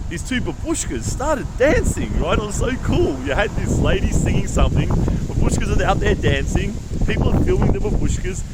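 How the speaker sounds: bursting with delight at the memory; excited. Real, not acted. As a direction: enthusiastic storytelling, voice lifted. Excited retelling of street dancing.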